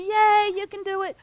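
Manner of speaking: high, bright mock cheer from the stands; cheering crowd. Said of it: "they're going".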